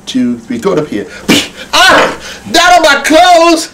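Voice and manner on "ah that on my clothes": mock surprise. Puppeteer reacts to flour thrown.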